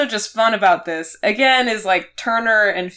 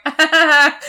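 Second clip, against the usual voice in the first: imitated little chuckle, higher and louder; short imitation laugh, pitched up; 5 semitones higher, 4 dB louder than usual. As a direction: copy his little after-the-joke laugh. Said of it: "kinda laugh right after it".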